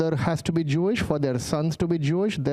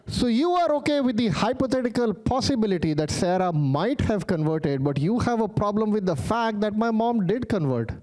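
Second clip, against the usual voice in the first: raised-pitch incredulous comeback; indignant pointing out of a double standard; exasperated retort; 6 semitones higher than usual. Retold or imitated. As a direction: argue it back in mock disbelief, punching the contrast. Exasperated retort to heckler, retold.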